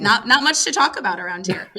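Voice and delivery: raspy, strained voice; talking through a voice that's going; hoarse voice. Real, not acted. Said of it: "I'm losing my voice".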